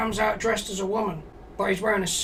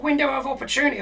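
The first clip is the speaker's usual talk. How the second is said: incredulous echo; 5 semitones higher, faster than usual. Retold or imitated. Echoing Joe's excuse in disbelief.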